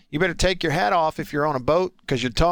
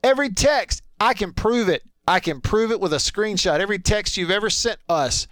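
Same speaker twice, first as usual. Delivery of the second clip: mock indignation; 3 semitones higher than usual. Real, not acted. Host mock-scolding a teasing texter.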